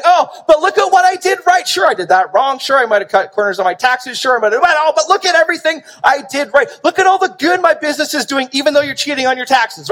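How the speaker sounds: hammed-up self-justifier pointing at their good side; self-justifying excuse-maker. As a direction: play the person dodging blame with a list of good deeds. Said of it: "It's not saying".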